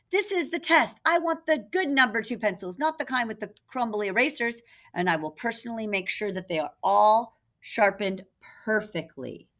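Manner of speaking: mock-frantic principal ranting about pencils; principal yelling. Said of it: "Principal Wiggins yelling about pencils".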